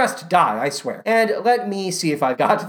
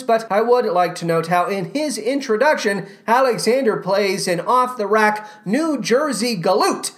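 ordinary talk, nothing marked

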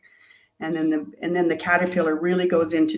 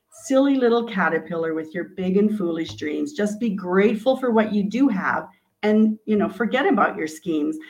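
mocking inner voice. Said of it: "that goes".

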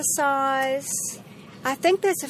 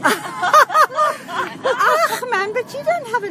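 laughing, higher, louder mock Afrikaans accent; 10 semitones higher, 7 dB louder, slower than usual. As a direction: burst into a playful Afrikaans accent. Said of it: "now that's the Afrikaans accent".

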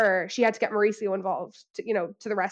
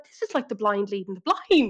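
laughing aside. Retold or imitated. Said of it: "And I'm like".

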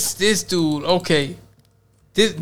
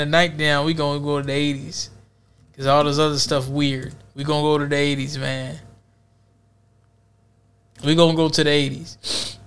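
wrestling announcer; 4 semitones lower, 4 dB quieter than usual. Pretend. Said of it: "let's do the WrestleMania".

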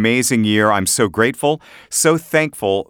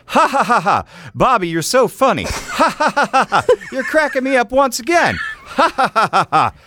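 fake laughter; 14 semitones higher than usual. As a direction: ham up a fake laugh for a level check. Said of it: "I'm gonna pretend like we're doing our thing".

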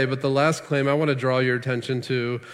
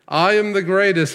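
louder, higher repeat of the boast; Ali's boast; 5 semitones higher, 5 dB louder than usual. Retold or imitated. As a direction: crow it again like the champ. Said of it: "Muhammad Ali would constantly say".

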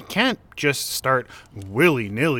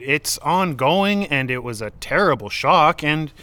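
louder and higher, pushing back hard; heated raised voice; 3 semitones higher, 5 dB louder than usual. Acted. Arguing over the flags, insisting in a raised voice. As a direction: cut her off and insist, voice raised.

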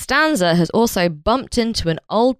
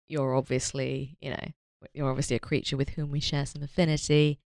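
alien voice; 3 semitones lower, 9 dB quieter than usual. Retold or imitated. Aliens voiced speaking to Costanza.

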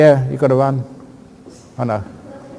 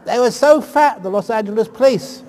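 amused excitement; 4 semitones higher, 5 dB louder than usual. Real, not acted. Laughing at fat police.

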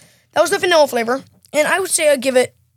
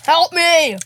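pleading through a sticky mouthful; stuck on a chewy bite; chewing sticky toffee; 3 semitones higher, 4 dB louder than usual. Real, not acted. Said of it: "So chewy".

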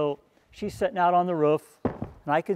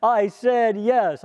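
imitating girl's reply; 7 semitones higher, 6 dB louder, much slower than usual. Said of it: "she said".

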